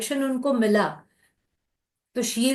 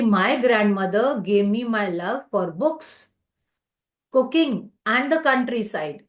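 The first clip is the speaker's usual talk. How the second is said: slow reading aloud; much slower than usual. Acted. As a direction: let the sentence unfold gently.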